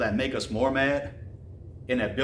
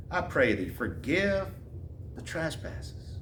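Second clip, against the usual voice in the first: hushed plea; 6 dB quieter, slower than usual. Acted. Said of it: "And now she's saying".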